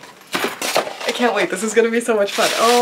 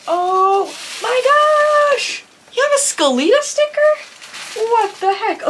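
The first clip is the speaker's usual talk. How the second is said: excited squeal; 10 semitones higher, slower than usual. Real, not acted. Thrilled to find a sticker.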